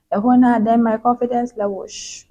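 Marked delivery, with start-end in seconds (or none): 1.9-2.2 soft hushed "shh" sound effect; imitated whoosh. Vlogger showing her confidence level dropping, soft shh.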